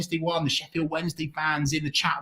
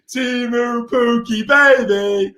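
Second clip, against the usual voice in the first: drawn-out name; 5 semitones higher, slower than usual. Real, not acted. Savours scorer's name.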